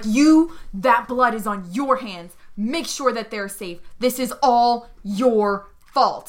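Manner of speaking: slow, emphatic accusation; understated pretend shout, weighty words; mock shouting. Captive shouting at Zofia, mild slow accusation. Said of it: "Now I'm shouting at Zofia".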